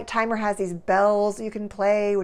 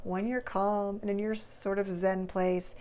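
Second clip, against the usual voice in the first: softer, settled delivery; calm, unhurried; 5 dB quieter than usual. Shown as a demonstration. Psychologist catching herself talking fast, now calm and softer. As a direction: ease off into a calm, zen tone. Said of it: "See, I'm talking fast".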